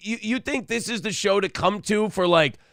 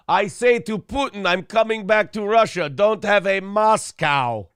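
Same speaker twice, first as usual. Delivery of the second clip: put-on Russian accent; 3 semitones higher than usual. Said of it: "Teddy KGB impressions".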